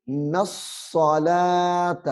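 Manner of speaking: نص الصلاۃ with a firm, doubled ص; hard doubled ص. Shown as a demonstration. Teacher drills the doubled letter. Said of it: "سختی سے پڑھنا ہے".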